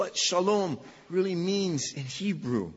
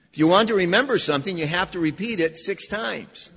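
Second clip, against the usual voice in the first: louder, faster, driving it home; emphatic repeat; 2 semitones higher, 7 dB louder than usual. Shown as a demonstration. Preacher repeating the saying to his congregation, loud and quick. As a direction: hammer the line to make them remember. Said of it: "I've only said it four times".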